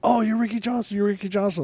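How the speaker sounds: put-on Portuguese accent. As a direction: excitedly mimic a Portuguese man's accent. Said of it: "speaking in this hard Portuguese accent".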